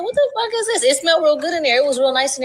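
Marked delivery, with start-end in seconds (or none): 0.0-0.8 higher, stunned what-the-hell; mock-horrified gasp of a question; shocked disbelief. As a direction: react to a candlelit office in disbelief. Shocked reaction to candlelit office.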